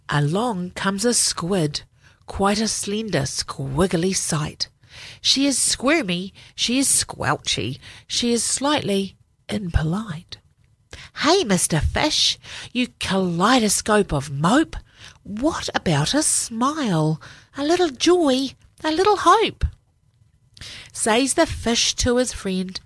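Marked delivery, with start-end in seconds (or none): 0.1-10.4 put-on gentle read-aloud for children; story narration. A narrator's reading. 11.2-19.6 high, sing-song nagging squid. Acted. Squid character speaks.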